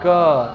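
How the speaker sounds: क held long so its vowel rings on; drawn-out consonant. Shown as a demonstration. Teacher shows the hidden vowel, क drawn out. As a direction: stretch क into a long, loud sound. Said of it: "अब लंबा समय तक क बोल के देखिए".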